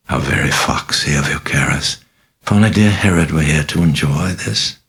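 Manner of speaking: a mocking, sinister possessed girl, purring; a lightly voiced demon, amused and taunting; sly demon voice. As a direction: toy with the priest, silky and sly.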